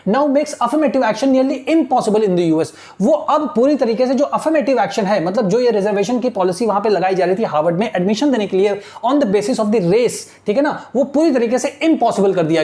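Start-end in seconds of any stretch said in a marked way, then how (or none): 0.1-2.7 very slow, word by word reading; slow classroom dictation of English text. Shown as a demonstration. Teacher dictating newspaper line slowly. 9.0-10.2 very slow, word by word reading; slow classroom dictation of English text. Shown as a demonstration. Teacher dictating slowly.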